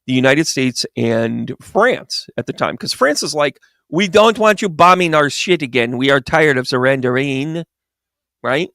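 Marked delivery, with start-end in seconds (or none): 3.9-7.6 hammed-up French accent. France protesting to the United States, in a French accent. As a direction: put on a mock French voice. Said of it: "that's my French accent".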